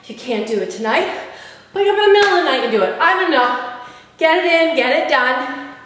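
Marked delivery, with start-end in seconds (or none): 1.7-5.7 breathless after jump squats; panting between words after a workout; out of breath. Real, not acted. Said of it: "I'm out of breath there".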